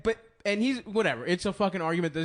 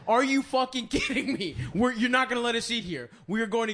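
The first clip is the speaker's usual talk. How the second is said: raised, higher retold shout; mock shout; 5 semitones higher than usual. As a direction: shout it up in pitch. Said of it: "we're shouting".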